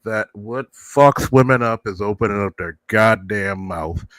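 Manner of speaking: creaky elder grumbling; very old man. Pretend. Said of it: "I gotta go with my old man voice".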